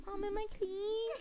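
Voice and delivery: high, slow singsong call to mom; imitated little child. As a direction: call out like a small kid from the bathroom. Child calling to mom, retold.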